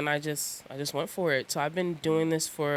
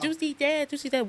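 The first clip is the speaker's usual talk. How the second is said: higher, slurred imitation of a drunk friend; Frank's voice; 10 semitones higher than usual. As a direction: imitate how Frank mangles the nickname. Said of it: "That's how Frank talk".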